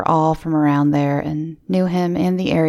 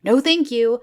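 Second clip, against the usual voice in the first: firm refusal; 6 semitones higher than usual. Retold or imitated. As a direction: cut him off firmly while walking away. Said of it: "I just go".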